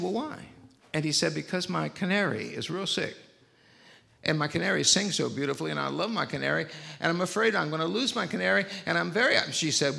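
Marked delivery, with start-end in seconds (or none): 0.0-0.4 put-on pitched up high, kindly asking a child on the phone; caring phone operator. Operator checks on the lonely boy, high and kindly. Operator voiced in a retold story. 1.3-9.4 put-on higher, louder and faster, worried child pouring it out; scared little boy. Boy tells the operator about his sick canary, anxious and high. Frightened boy voiced in a story.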